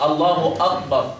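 slow "الله أكبر" said as aqbar; kaf thickened to qaf. Shown as a demonstration. Teacher showing the result of thickening, q for k. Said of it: "إن فخمتها أصبحت قاف".

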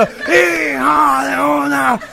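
cántico nasal y arrastrado; multitud de gangosos. Acted. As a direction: corea despacio como un gangoso imitado. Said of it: "todos como cinco mil gangosos". (gangosos coreando con voz nasal)

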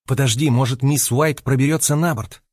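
ordinary delivery

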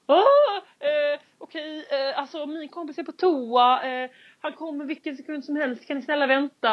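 high, desperate pleading. Retold or imitated. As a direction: beg the gate agent to wait. Ber den sura tanten vänta. (hög bönfallande röst)

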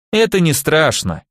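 bright, too eager reassurance; overly cheerful. Acted. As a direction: cheer him up a bit too hard. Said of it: "излишне бодро заявил Михаил". (излишне бодро)

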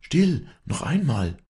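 high, slow, tense command; urgent hushing. A narrator's reading. Walli listens for another cry, tense and high. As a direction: halt him with high, drawn-out urgency.

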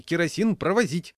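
high, loud warning; official calling out. A narrator's reading. Conductor forbidding kerosene on board, calling out. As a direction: call out sharply to everyone.

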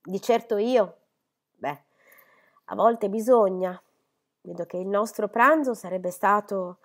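an eager lady bustling in to scold fondly; chattering Miss Phoebe. Acted.

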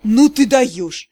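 slow stunned amazement; drawn out in disbelief; amazed. A narrator's reading. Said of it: "только и вымолвил Кир".

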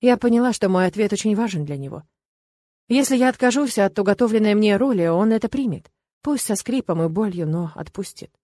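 plain reading voice

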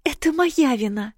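put-on a young sister blaming herself; grieving girl. A narrator's reading. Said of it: "сокрушалась юная сестра".

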